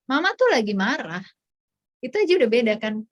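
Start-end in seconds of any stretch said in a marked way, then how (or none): 0.0-1.2 tegur anak dengan tegas, tidak membentak; marah tanpa teriak. Shown as a demonstration. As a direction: contoh teguran ibu yang terkendali. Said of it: "Tanpa perlu teriak". (menegur tegas tanpa berteriak)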